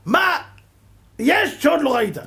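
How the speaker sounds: high loud amazed question; incredulous outburst. Acted. Preacher marvels at the great rabbi, high loud disbelief. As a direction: throw it up in disbelief.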